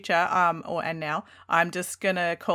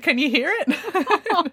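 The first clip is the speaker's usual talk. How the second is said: put-on high, slow, drawn-out little-kid question; expectant child; 9 semitones higher, 4 dB louder, much slower than usual. Daughter checking mum hears her song, high expectant child voice. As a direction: ask like a hopeful small child, pitched up. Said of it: "And she said".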